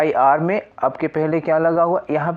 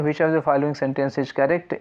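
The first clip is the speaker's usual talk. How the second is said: 1 slow question reading; much slower than usual. Shown as a demonstration. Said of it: "लिखा है".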